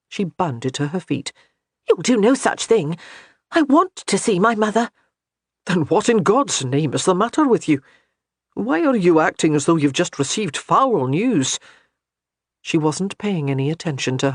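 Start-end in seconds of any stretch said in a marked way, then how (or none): 1.9-4.9 put-on higher, a touch of an indignant young wife. A narrator's reading. Wife Johanna objects. 5.6-11.6 lightly voiced puzzled husband; half-irritated, half-baffled question; exasperated husband. A narrator's reading. Gabriel baffled.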